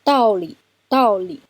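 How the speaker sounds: 道理 with 道 falling, 理 short and light; neutral tone demo. Shown as a demonstration. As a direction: say 道理, 理 quick and unstressed. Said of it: "那是跟在一个四声的后面".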